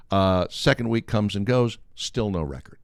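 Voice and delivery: ordinary talk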